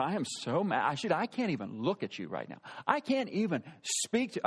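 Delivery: emphatic mock anger, no shouting; contained, seething imitation; imitating angry wife. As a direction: play her too mad to look at him. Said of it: "I'd never seen her mad like this".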